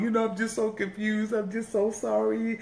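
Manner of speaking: hammed-up sorry act, fishing for sympathy; mock pitiful. Pastor playing pitiful to win her back, mock whimper. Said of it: "The next move is he gonna be pitiful".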